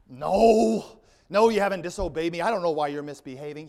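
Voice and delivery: loud, hammed-up outburst, quickening after a long "No"; acted fury. Furious Balaam argues with his donkey, acted loud outburst. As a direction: shout back, then rattle on indignantly. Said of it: "He's so furious".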